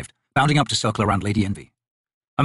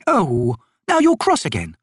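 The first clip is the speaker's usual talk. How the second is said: slow, higher teasing noblewoman; teasing lady voice; 6 semitones higher, slower than usual. Acted. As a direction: coax him playfully, slowly. Envy teasing Tok.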